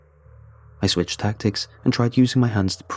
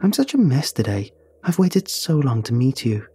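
cackling; 3 semitones higher than usual. Acted. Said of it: "as she cackled".

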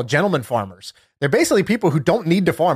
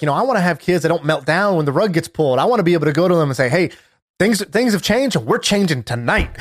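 mild hype rant; 2 semitones higher than usual. Retold or imitated. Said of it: "going on this rant".

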